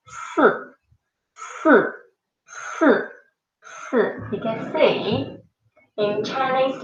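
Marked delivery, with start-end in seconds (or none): 0.1-4.0 si with a falling tone, going down; demonstrated si. Shown as a demonstration. Teacher showing the falling tone of si to students. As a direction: drop the voice on si. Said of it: "look at my mouth again".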